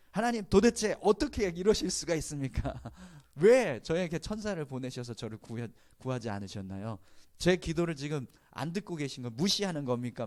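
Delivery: high, loud mock outrage; indignant protest. Drowned man confronting God in mock anger. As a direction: demand answers, hammed-up indignation. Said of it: "막 이러면서 따졌대요".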